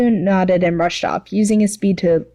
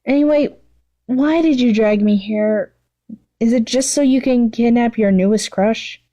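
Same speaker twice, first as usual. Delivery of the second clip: higher, exasperated villainess; rolling her eyes at her friend; a higher, exasperated voice for the bored villainess; Mimicus's voice; 4 semitones higher than usual.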